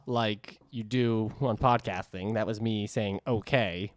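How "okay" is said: Okay in a New England drawl; New England accent. Shown as a demonstration. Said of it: "but with my New England drawl".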